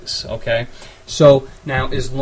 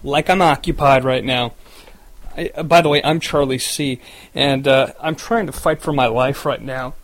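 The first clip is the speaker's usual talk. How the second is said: crackly lonely radio dj. Acted. Radio DJ broadcast opening.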